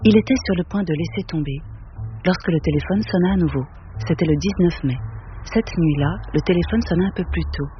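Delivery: measured, even reading of a novel; story narration. A narrator's reading. Reading Auster's novel to an audience, steady literary narration. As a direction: read it to the room, unhurried and calm. Reads Cité de Verre aloud.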